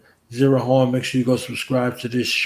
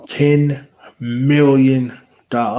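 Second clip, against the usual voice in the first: drawn-out hype; 4 dB louder, slower than usual. Acted. Hyping a fundraising goal.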